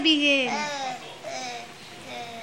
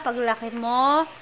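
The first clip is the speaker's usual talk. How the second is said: put-on talking to a baby. Shown as a demonstration. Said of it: "Kausapin mo si baby".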